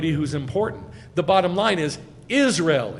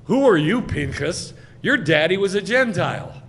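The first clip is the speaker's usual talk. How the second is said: loud, higher, scornful retort; acted angry challenge; 3 semitones higher, 6 dB louder than usual. Challenger confronting Pinchas about his daddy, acted scorn. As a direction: throw his parentage in his face.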